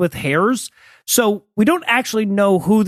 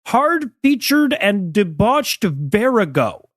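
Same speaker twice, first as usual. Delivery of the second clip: slow quoted phrase; slower than usual. Retold or imitated.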